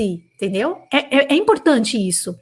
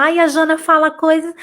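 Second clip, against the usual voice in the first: mock victim whine; 3 semitones higher than usual. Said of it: "não adianta se vitimizar".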